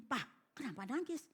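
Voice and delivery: soft, rising question to a father; lightly acted child asking quietly; retold child's question. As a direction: ask gently, imitating the puzzled child. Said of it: "Anaknya gini".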